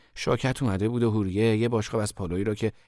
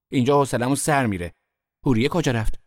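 raised, loud complaining; whiny complaint; 4 semitones higher, 7 dB louder than usual. A narrator's reading. Sister told to stay in kitchen, whiny complaint. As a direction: complain loudly with pitch lifted.

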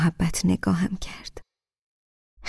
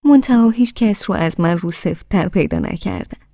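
put-on lightly sweet old lady. Grandmother reassuring the groom, in a mild sweet tone. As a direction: say it kindly, a little teasing. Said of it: "با همان لحن شیرینش گفت".

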